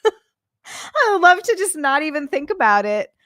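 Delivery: laughing longing. Real, not acted. Streamer longing for freedom from anxiety, laughing wail. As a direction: say it yearningly, coming out of a laugh.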